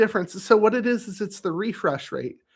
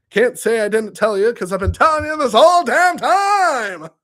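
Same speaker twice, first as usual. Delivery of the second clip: laughing told-you-so; 5 semitones higher, 7 dB louder than usual. Real, not acted.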